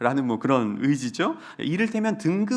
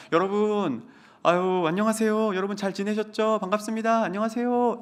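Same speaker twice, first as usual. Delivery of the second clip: polite greeting; 5 semitones higher than usual. Retold or imitated. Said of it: "존댓말로 인사했죠".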